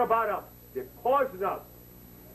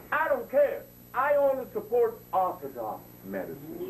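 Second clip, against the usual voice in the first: imitating her; 10 semitones higher than usual. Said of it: "she said".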